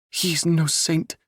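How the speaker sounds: high, slow, loud spat words. Acted. Princess condemns the usurper, spitting contempt. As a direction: spit it out with contempt, slowly. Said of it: "she spat".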